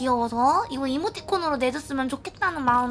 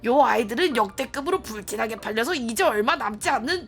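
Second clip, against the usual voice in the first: polite saleswoman voice; smooth sales pitch; customer service voice. Acted. Voices shopkeeper NPC.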